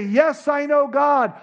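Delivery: loud, high, slow profession; emphatic claim of faith; insistent declaration. Acted. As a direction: proclaim it with overdone certainty. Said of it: "we might say".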